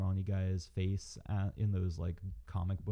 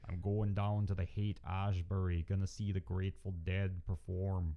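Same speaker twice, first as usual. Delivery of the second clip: put-on Minnesotan accent. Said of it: "thick Minnesotan accent".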